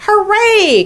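high, loud cheer; excited cheer. A narrator's reading. All the animals cheer Charlotte's news, high loud excitement. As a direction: cheer like a whole crowd. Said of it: "cried everybody".

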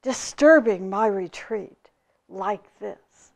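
loud, slow, indignant tirade; the angry hermit scolding the visitor who disturbed his retreat; angry outburst. Acted. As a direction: rail at the intruder, still fuming. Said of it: "he exploded".

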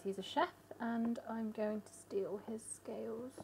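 slow conspiratorial whisper. Real, not acted. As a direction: whisper it so he won't hear. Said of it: "Don't tell him".

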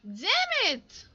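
high, loud frustrated yell; angry shout. Real, not acted. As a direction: yell it at the screen, fed up. Dies in game, frustrated outburst.

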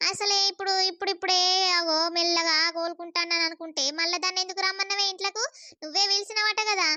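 scolding. Acted. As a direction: scold your mother for letting her in. Daughter scolds her mother. (అమ్మను నిలదీస్తూ ఎత్తైన స్వరంలో తిడుతూ)

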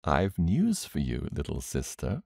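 understated gentle brother. Acted. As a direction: break news gently to a sister. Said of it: "said gently".

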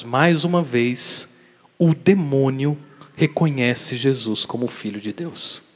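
ordinary talk, nothing marked

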